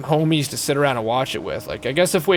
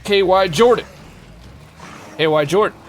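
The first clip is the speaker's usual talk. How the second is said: mock-dramatic follower welcome, slightly raised; hype announcer; 5 semitones higher, 3 dB louder than usual. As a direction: herald a newcomer into a mysterious world.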